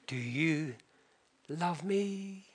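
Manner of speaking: soft and low, almost hushed; tender question. Retold or imitated. Husband pleading softly to his wife. Tevye asks once more.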